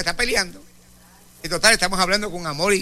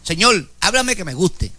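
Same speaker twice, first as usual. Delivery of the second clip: mock demanding prayer; slower than usual.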